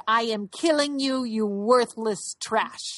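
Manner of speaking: imitated Volgograd Russian accent, slowing at the end. Quoting Maria killing her former husband, mock Volgograd accent. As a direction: quote it in a mock Volgograd accent, drawing out the insult. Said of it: "with that Volgograd accent".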